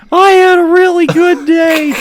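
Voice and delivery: extremely pleased, loud high falsetto; hammed-up joyful cartoon owner; John. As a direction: squeal it with over-the-top delight. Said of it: "extremely pleased".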